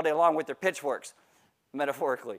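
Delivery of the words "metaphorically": deadpan aside. Acted. Pastor repeats the joke to the congregation, deadpan. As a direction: toss it off under your breath.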